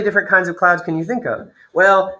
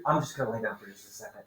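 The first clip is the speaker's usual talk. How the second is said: sleepy mumble; 8 semitones lower, 15 dB quieter, much faster than usual. Pretend. Teacher acts out tired person.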